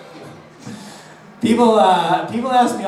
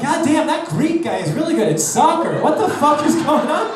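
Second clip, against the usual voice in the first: baffled spectator; 5 semitones higher than usual. Retold or imitated. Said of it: "You're just sitting there like".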